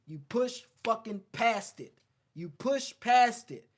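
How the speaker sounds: a coach firing up his listeners, loud and slow; emphatic push. Real, not acted. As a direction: hammer the point home, each word weighted. Emphatic motivational punchline.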